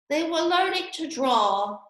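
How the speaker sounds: yawning, drowsy and slow; drowsy sleepy voice. Acted. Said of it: "yawning and rubbing its eyes".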